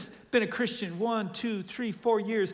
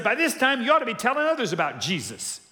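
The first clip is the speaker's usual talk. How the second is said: emphatic paraphrase; 5 semitones higher, 5 dB louder than usual. Retold or imitated. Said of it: "He said".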